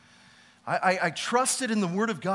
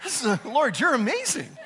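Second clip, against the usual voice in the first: laughing praise; 5 semitones higher than usual. Retold or imitated. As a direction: praise bubbling through laughter. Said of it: "I was like".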